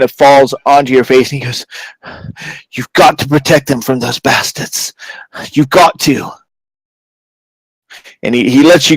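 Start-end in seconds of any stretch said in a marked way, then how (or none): 2.7-6.3 strained, held-back urgency; intense pleading. Acted. Magistrate begging protection for his family, intense restraint. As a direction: press each word on the listener.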